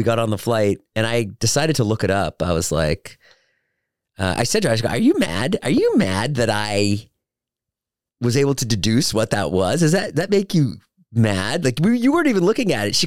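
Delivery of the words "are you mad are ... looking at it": acted-out, higher-pitched needling question; incredulous teasing challenge. Acted teasing challenge to miffed fiancee.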